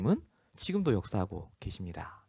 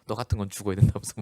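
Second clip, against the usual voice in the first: mother's curse; 4 dB louder, faster than usual. Retold or imitated. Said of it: "얘기하더라고요".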